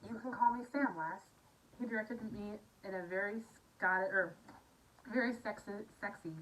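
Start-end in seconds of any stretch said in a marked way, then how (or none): 0.1-1.2 a hint of a Scottish brogue; lightly Scottish, a little louder; light Scottish accent. Sam introduces himself to Bliss in a light Scottish accent. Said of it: "I'm supposed to do a Scottish accent".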